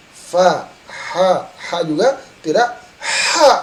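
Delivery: ordinary delivery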